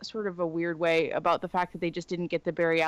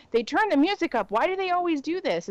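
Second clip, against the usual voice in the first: higher, louder tipsy whine; drunken complaint; 9 semitones higher, 4 dB louder than usual. Retold or imitated. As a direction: complain like a buzzed clubgoer. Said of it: "look at my friends ... and say".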